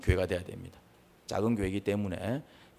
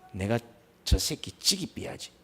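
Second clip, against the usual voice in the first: murderous muttering; slower than usual. Acted. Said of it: "악한 감정입니다".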